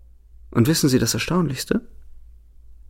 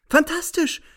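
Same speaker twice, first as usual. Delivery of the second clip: much higher, even more jubilant cry; exulting; slower than usual. A narrator's reading. Narrator exulting at her word, even more jubilant. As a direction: shout it again with glee. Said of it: "jauchze ich".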